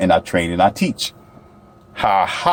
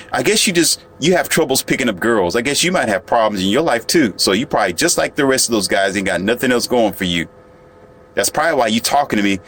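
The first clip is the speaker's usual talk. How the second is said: mocking lady's voice. Lightly imitating the woman in the waiting room, teasing and dismissive. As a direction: tease him like a bored, dismissive stranger. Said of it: "This is the lady speech here".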